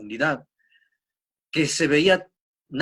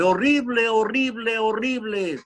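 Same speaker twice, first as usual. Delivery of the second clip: higher repeats dying away in level; fading echo; 7 semitones higher than usual. Retold or imitated. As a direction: echo it back three times, fading out. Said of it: "Y el eco le devuelve".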